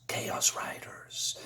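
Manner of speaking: slow, drawn-out eerie whisper; hoarse whisper. Acted. Comic reader voicing a wind without origin, hoarse slow whisper. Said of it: "hoarsely whispers".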